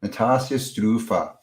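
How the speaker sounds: "Natasha Strufa" slowly, with ah in Natasha and oo in Strufa; attempted foreign pronunciation. Real, not acted. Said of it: "probably the completely wrong accent".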